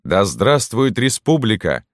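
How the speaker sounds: high, drawn-out hurrah; soldiers' cheer. A narrator's reading. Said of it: "повторили солдаты". (возглас солдат, высоко и протяжно)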